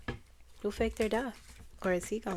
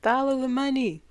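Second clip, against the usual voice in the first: loud, higher mock quote with weight on follow; imitating John Lewis; 5 semitones higher, 8 dB louder than usual. Imitating a politician's upset rallying line, loud and higher. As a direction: boom it out like a fired-up speaker. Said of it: "That's how he said it".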